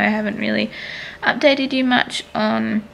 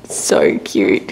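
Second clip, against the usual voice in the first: whispered. Real, not acted. Whispered aside about baby.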